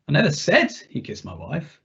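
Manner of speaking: said stressed with a rising lift. Shown as a demonstration. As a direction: lean on the word said. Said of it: "see how the meaning shifts with a different emphasis".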